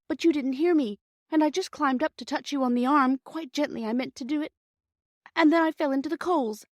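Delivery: put-on high, tearful little girl's rush of apology; a frightened girl begging them not to be cross; tearful pleading. A narrator's reading. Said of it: "She sniffed again".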